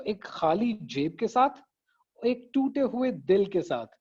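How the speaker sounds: "एक खाली जेब के साथ", pause, "एक टूटे हुए दिल के साथ"; two balanced phrases split by a pause; short separate phrases. Shown as a demonstration. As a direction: give each short phrase its own beat. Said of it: "छोटे छोटे जुमले ना".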